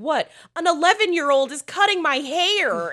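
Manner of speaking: put-on high, loud accent turning very American; British slipping into American. Imitating the film's girl losing her British accent, high American-sounding outcry. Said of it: "it gets very American".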